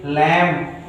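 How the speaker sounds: "लैम्प" ending on M; silent B. Shown as a demonstration. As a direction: close "लैम्प" on the M, no B or P. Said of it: "यम के बाद बी कभी नहीं पढ़ा जाता".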